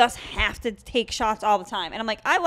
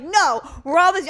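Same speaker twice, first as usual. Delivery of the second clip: retold yelling; 7 semitones higher, 5 dB louder than usual. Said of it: "I yelled at him at the top of my lungs".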